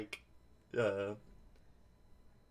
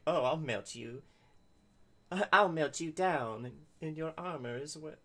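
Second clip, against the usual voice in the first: scary wizard gnome; 4 semitones higher than usual. Retold or imitated. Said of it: "scary wizard who's like".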